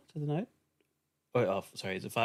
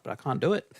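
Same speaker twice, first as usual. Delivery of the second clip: laughing; 5 semitones higher, 5 dB louder than usual. Real, not acted. Laughing at failed ventriloquism.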